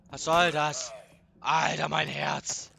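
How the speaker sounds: loud startled shout after a jump scare; startled yell. Real, not acted. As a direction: yell out in real fright. Jump scare in horror game.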